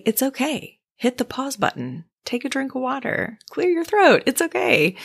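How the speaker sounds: reassuring self-talk. Retold or imitated. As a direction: comfort a friend gently. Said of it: "I would say".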